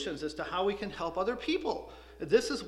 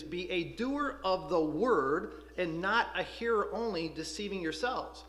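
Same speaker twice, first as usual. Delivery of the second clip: slow, deliberate verse reading; reading James to the class; scripture reading. Acted. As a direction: lean on not as you read the verse. Quotes the verse again.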